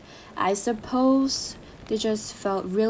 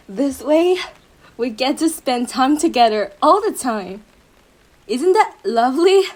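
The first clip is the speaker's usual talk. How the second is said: giddy laugh; 5 dB louder than usual. Acted. Lover delights in togetherness.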